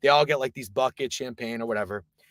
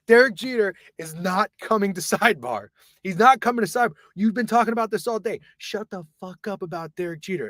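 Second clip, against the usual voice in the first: high, whiny imitation of a fed-up friend; hammed-up fed-up complaint; mock exasperation; 5 semitones higher than usual. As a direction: scoff in a raised pitch. Drunk friend scoffing loudly.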